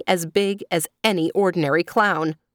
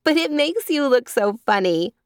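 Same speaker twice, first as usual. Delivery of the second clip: put-on laughing girl; 5 semitones higher than usual. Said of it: "laughing until her eyes were moist".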